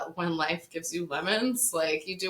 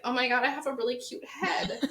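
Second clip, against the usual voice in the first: laughing; 6 semitones higher than usual. Retold or imitated. Delighted at her bald head.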